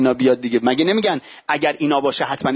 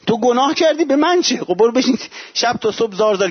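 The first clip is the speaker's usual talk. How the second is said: annoyed retort; 6 semitones higher than usual. Acted. Housemate fed up with a sulky believer's sin, irritated retort. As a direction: snap back at the gloomy housemate. Family member scolding the gloomy believer.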